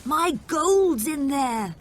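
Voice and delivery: high, loud upset cry; anguished shout. A narrator's reading. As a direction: cry out over lost treasure. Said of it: "he shouted".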